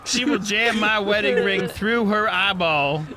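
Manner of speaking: lightly hissed lizard voice; a touch of reptile menace; hissing reptile growl. Acted. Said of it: "Lizard voice in our heads".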